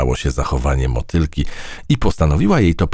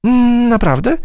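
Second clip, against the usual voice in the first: high, squealing pleased fly; delighted; 4 dB louder than usual. A narrator's reading. Fly thrilled by Matylda's praise, high squeal. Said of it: "ucieszyła się mucha".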